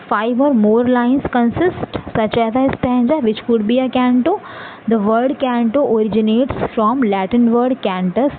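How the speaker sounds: very slow, each word spaced out for note-taking; slow dictation. Acted. Teacher dictating definitions to students, very slow. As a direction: read it out word by word so students can write.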